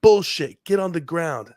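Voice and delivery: high, loud dismissive bark; retold cop shout. Officer rejecting the narrator's claim, loud high shout. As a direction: snap it back at him like the angry cop. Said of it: "He literally goes".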